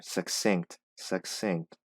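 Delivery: "succinct" as suk-sinkt, both c sounds clear; careful pronunciation. Shown as a demonstration. Teacher modelling a word for learners: careful "succinct". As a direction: split "succinct" into two clear syllables. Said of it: "these two C's are separate syllables".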